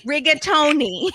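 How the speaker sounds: high, hammed-up Italian-American cry; mock Italian-American food exclamation; stereotypical Italian-American accent. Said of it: "it couldn't be more stereotypical".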